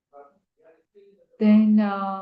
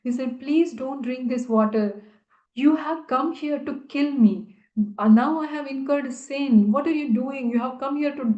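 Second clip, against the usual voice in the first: higher, pleading and alarmed; anxious plea; 4 semitones higher than usual. Retold or imitated. Devotee begging the Lord not to drink, anxious. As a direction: beg the Lord to stop, in a panic. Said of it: "He became full of anxiety".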